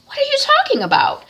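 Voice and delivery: shocked outcry. Retold or imitated. Mother shocked by accusation.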